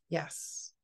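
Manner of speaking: a breathless, voiceless yes; whispered yes. Retold or imitated. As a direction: barely get the yes out. Tearful yes to the receptionist.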